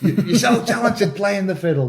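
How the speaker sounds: fail to keep a straight face on the praise; trying not to laugh. Acted. Acting out someone praising his fiddle playing, laughing through it. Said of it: "I'm trying to say that without laughing".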